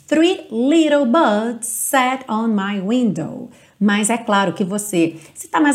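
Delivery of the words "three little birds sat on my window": British lyric demo. Shown as a demonstration. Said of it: "Então aqui a gente vai ter".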